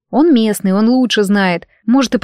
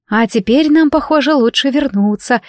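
teeth chattering; 4 semitones higher than usual. Acted. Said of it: "стуча зубами от холода".

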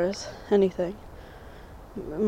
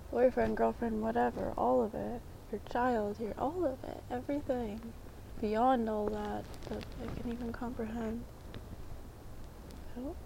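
softer, hushed and earnest; soft and sincere; 5 dB quieter than usual. Real, not acted. Telling viewers how she sees God, soft and sincere. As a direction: confide it gently, half whispered.

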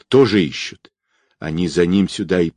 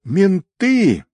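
frantic scream; 12 semitones higher than usual. A narrator's reading. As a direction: scream the warning, panicked. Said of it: "истошно закричал якут".

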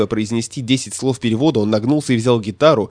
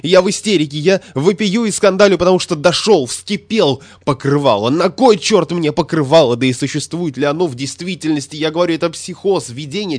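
boil over and scream; raging hysteric; hysterical scandal; 6 semitones higher than usual. A narrator's reading. Statistician in full hysteria.

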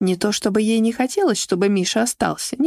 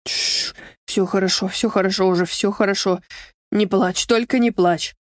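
успокаивающе; 3 semitones lower than usual. Acted. Миша утешает плачущую Альбину.

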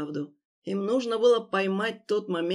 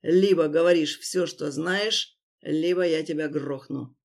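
through gritted teeth; 3 semitones lower than usual. Acted. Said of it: "процедил".

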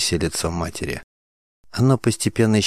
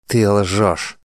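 accusing; 3 dB louder than usual. A narrator's reading. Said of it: "Мандана была на грани помешательства".

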